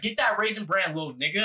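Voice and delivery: mildly gruff impression of a bossy dad; lightly mocked aggressive command. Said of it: "Why so aggressive?".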